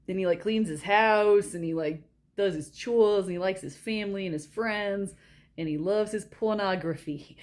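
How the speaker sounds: light mock New York accent; tough-guy accent. Shown as a demonstration. Listing the movie guy's habits, imitated New York accent. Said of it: "He talks like this".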